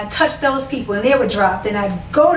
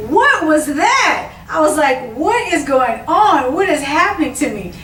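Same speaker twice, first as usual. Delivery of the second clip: mild mock scream; 5 semitones higher than usual. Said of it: "And I was screaming".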